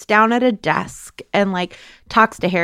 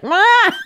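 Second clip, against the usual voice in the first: sudden high mock cry of pain; 11 semitones higher, 3 dB louder than usual. Guest describing feeling in the scene, high yelped ah. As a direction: yelp out the discomfort. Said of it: "I was like".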